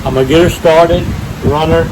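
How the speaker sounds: outdoors on a windy lake; talking outside in the wind. Real, not acted. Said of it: "I'm out here on the lake. Wind's blowing today".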